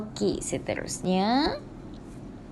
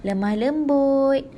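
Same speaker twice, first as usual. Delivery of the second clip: gentle voice; 4 semitones higher, slower than usual. Shown as a demonstration. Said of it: "orang bercakap dengan suara yang".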